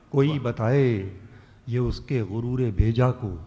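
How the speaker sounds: declaiming a ghazal couplet; ghazal recitation. Acted. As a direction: recite each line like poetry on stage. Poet recites verse at mushaira.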